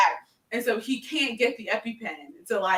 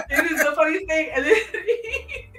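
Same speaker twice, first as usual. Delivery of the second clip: laughing; 6 semitones higher than usual. Real, not acted. Friend recounting funny episode, laughing. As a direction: laugh it out while telling.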